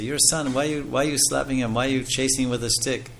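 a sage lecturing the parents, lightly voiced; scolding sage. Sages scolding Yashoda about Krishna.

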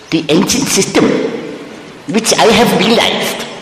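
a mild parody of a boastful yogi master; mock ancient guru. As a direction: ham up the pompous seven-century-old guru. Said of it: "He said".

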